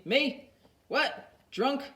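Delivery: high feigned innocence; mock surprise. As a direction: act shocked at the idea. Mickey plays innocent.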